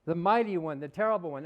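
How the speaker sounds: lightly voiced self-exalting deity, emphatic openings; megalomaniac God. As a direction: proclaim your own glory like a mock almighty. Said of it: "Who talks like that".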